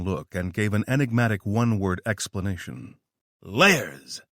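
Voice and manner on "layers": a touch of a theatrical exclaim; theatrical exclamation. Acted. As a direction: toss it off with a showman's flourish. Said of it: "he exclaimed".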